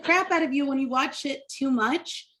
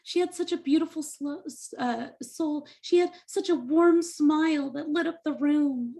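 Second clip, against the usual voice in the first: higher-pitched gushing tribute voice; mock gushing mourner; 4 semitones higher than usual. Comic imitating people remembering a victim, mock gushing tribute. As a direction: lightly imitate someone eulogizing a victim. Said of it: "everybody talks about them like".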